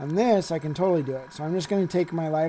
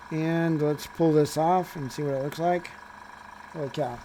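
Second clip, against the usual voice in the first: talking around a paintbrush held in the mouth; paintbrush in teeth. Real, not acted. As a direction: speak with a brush clamped between your teeth. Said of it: "I got a paintbrush in my mouth".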